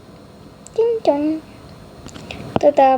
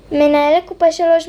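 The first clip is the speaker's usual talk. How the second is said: louder, higher store call for the manager; announcing the manager to register three; 4 semitones higher, 4 dB louder than usual. Acted. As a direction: call it across the shop. Cashier calls for manager.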